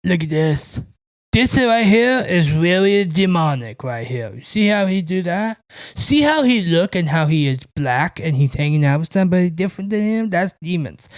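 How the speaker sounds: lightly voiced know-it-all pointing out demons; a hint of a mocking voice for a paranoid viewer; mock conspiracy theorist. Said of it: "to see a guy go".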